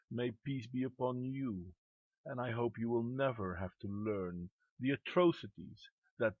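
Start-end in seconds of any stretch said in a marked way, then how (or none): 0.1-3.9 softer, falling and sober; sincere wish. Real, not acted. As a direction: offer it quietly as a real wish. Sincere wish after listing bomb victims.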